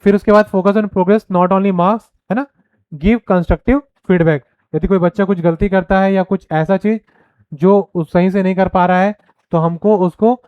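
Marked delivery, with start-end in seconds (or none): 2.9-4.4 very slow, each word spaced out; dictating a point; slow dictation. Shown as a demonstration. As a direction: read it slowly so students can write. Reading slide point aloud.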